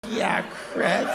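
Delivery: breathy unvoiced echo of the heckler; whispered heckler imitation. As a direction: whisper it like a stray voice from the crowd. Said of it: "I have that voice".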